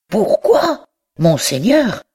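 indignant cry of pourquoi; outraged disbelief. A narrator's reading. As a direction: pitch jumps high on pourquoi. Le libraire s'indigne. (surprise indignée)

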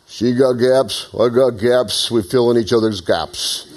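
slow, drawn-out tough-guy quote, lightly voiced; a hint of Rocky Balboa, taking his time; Rocky impression. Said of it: "And Rocky gave this".

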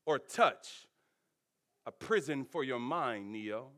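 low, hushed Morpheus voice, fading at each Neo; grave, whispered-down Morpheus. Retold or imitated. Preacher voicing Morpheus telling Neo he's a slave, low and hushed.

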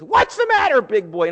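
hammed-up wicked queen cooing; teasing queen. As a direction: coo it at him teasingly. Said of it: "Jezebel comes in and she says".

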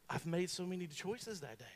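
usual speaking voice

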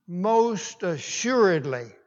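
"Most assuredly" drawn out slowly; solemn affirmation. Shown as a demonstration. Preacher imagining how the Lord said it, solemn affirmation. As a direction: stretch "Most assuredly", falling at the end. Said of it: "how the Lord said it".

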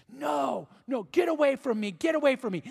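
mild imitation of a screaming boy; mock scream. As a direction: retell a frightened cry without full screaming. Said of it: "demon-possessed boy is screaming".

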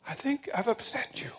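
a small, soft voice slipping out; a soft voice that surprises even the speaker; small surprised voice. Retold or imitated. Young bank clerk to his furious boss, in a small soft voice. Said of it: "a little voice that surprised me".

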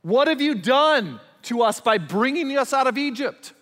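high, loud, accusing whine at Moses; complaining Israelites. Retold or imitated. Frightened Israelites loudly blaming Moses in protest. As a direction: throw the blame at Moses, loudly. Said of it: "listen to what they say".

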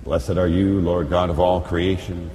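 usual speaking voice

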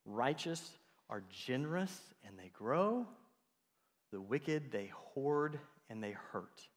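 slow and soft, every word placed; slow, weighty restatement. Shown as a demonstration. Preacher repeating the proverb slowly and softly for the congregation. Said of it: "the righteous people are generous".

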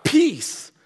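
a single high, ringing shout of peace. Real, not acted. Preacher to the church, crying peace aloud in a high shout. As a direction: cry it out to the congregation. Preacher climaxes on one word.

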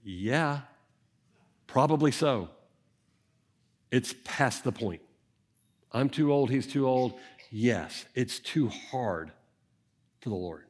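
a hint of a weary wife conceding "too hard"; resigned Sarah. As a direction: give up quietly, as an old woman who stopped hoping. Imagined Sarah answering God.

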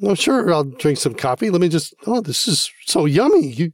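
put-on talking to a baby. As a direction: play along with a toddler. Pretend drinking toddler's coffee.

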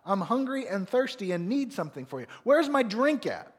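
put-on loud, high, demanding child voice; bratty child yelling at Mom and Dad; entitled kid. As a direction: boss the parents around like a spoiled kid. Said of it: "the sense of entitlement and presumption".

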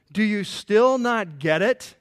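acted incredulity, drawn out and emphatic; surprised question. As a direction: stretch it out, amazed they are lost. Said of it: "Jesus was genuinely surprised".

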